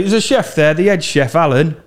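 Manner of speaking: high-pitched middle-class dad impression. Fake dad asking for the head chef, middle-class voice. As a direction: ask as a well-to-do middle-class father. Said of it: "his dad speaks like this".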